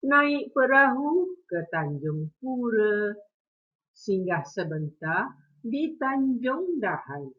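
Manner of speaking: slow, expressive pantun recitation; teacher reciting a pantun for the class; pantun recital. Shown as a demonstration. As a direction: recite each line slowly with feeling. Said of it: "Sekali lagi cikgu ulang".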